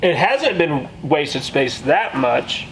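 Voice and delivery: chewing while talking; mouth full. Real, not acted. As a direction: talk through a mouthful of omelet. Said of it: "I'm chewing, sorry".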